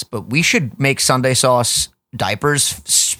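hissing, stretched s sounds; s dragged out like a snake's hiss; drawn-out s like a snake. Real, not acted. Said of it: "I just sounded like a fucking snake".

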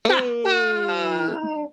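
laughing groan at the pun; high laughing cry. Real, not acted. Reacting to the pun.

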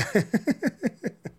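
high, breathy laugh; helpless laughter; laughing hard. Real, not acted.

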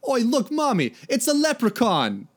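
put-on high, excited little girl. A narrator's reading. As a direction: call out high like a small child. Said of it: "a little girl tugged".

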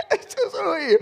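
preacher repeating Jesus's line to the congregation, excited; emphatic repeat. Acted. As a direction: hammer it home with amusement.

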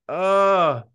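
high, loud, drawn-out awed gasp; gasping oh my God. Retold or imitated. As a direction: swoon out loud over it. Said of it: "being like".

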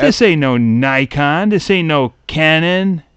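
slow, drawn-out grumble of a cheated buyer; lightly hammed-up complaint; mock indignation. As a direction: play the let-down customer, stretching each word. Acts an outraged camera buyer.

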